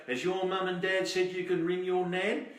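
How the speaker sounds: lightly voiced operator; exchange girl. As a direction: check with the child like a kindly operator.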